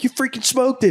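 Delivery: very high-pitched, emphatic retold cheer; excited insistence. Guide convincing hunter she hit it, excited. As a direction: replay exasperated, thrilled insistence.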